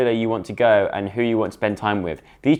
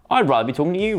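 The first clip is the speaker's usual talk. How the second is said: acted flirty line; 7 semitones higher, much faster than usual. Speaks chosen line to Rocco.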